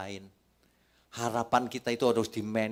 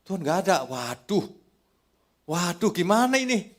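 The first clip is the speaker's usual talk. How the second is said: mock panic; 9 semitones higher, 7 dB louder than usual. Believer panicking without God.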